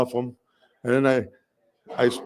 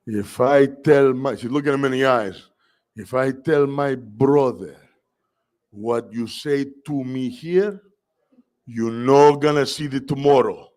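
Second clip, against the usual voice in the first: measured, deliberate warning; slow menacing threat. Retold or imitated. Mother threatening the principal in slow, deliberate tones. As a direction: stare him down and threaten slowly. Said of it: "she goes like this".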